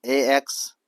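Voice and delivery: first syllable of एक्सपेंसिव, "एएक्स", said on its own; single syllable. Shown as a demonstration. Teacher splitting a word into syllables for students, syllable by syllable. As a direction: sound out "एएक्स" as a separate syllable. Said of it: "syllable के आधार पर तीन syllable है".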